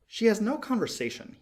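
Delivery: a small bird, peeved and pouting; little swallow. A narrator's reading. Swallow voiced in story.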